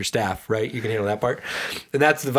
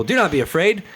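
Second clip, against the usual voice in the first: rousing reassurance; 5 semitones higher than usual. Acted. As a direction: lift up a scared crowd. Moses rallying frightened people.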